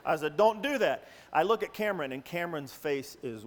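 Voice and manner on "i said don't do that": stern warning. Retold or imitated. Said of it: "I warned them at the rehearsal".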